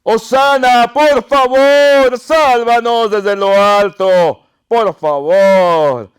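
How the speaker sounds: loud, high, long-drawn pleading shout; desperate-sounding preacher's cry, slowly falling in pitch; crowd crying out. Acted. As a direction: shout the plea with every phrase stretched. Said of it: "y gritaban".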